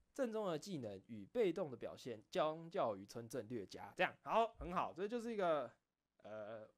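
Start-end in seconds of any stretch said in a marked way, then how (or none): 0.1-3.9 stiff literary reading. Shown as a demonstration. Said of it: "第一次我大概是这种".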